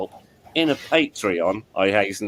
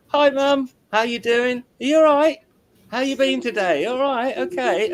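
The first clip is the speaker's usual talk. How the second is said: much higher and louder, every word pushed out; bright raised carrying greeting; loud high voice for deaf mum; 14 semitones higher, 3 dB louder than usual. Shown as a demonstration. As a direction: project up high so a hard-of-hearing mum catches it. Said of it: "that's what she can hear".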